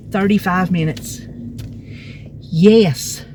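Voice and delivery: slightly winded after a long walk; out of breath. Real, not acted. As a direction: talk while catching your breath. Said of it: "Can't you tell I'm out of breath?".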